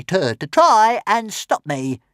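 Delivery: high, stammering, indignant; small dragon insisting on coming along; indignant little dragon. Acted. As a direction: stammer in outrage. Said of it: "said Toothless indignantly".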